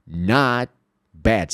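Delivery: not bad with the T only hinted; tongue stays on the roof, T never released; unreleased t. Shown as a demonstration. Teacher showing a held T, careful. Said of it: "Você só ameaça falar o som do T".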